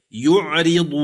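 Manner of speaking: يعرض recited with a light, thin ر; Quranic recitation. Shown as a demonstration. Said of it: "قوله تعالى مثلًا".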